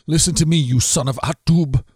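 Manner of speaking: a touch of a king's angry call; shouting king. Acted. Saul shouts at the priest, lightly acted. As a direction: summon the priest sharply. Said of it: "Saul shouted at him".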